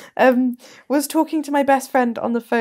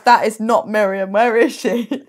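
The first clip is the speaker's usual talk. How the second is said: louder, hammed-up accuser; mock accusation; 4 semitones lower, 5 dB louder, slower than usual. Co-host playing a caller exposing a fraud, mock accusing. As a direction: demand it as if exposing an impostor. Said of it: "accusing you of being a fraud".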